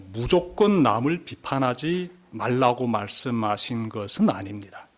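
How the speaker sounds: normal talking voice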